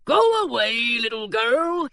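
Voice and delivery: loud gruff order; pirate barring the door, shouting. A narrator's reading. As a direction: shoo the child off loudly. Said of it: "he said".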